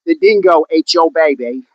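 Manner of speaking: lightly put-on Australian twang; mock Australian accent. Quoting the dingo line for viewers, lightly mock-Australian accent. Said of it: "you have to drift into that".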